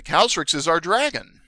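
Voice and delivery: put-on high, childlike kobold; squeaky childlike voice. Kobold explaining who Calstrix is, squeaky and childlike. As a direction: answer like a small squeaky creature. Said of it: "this squeaky, childlike voice".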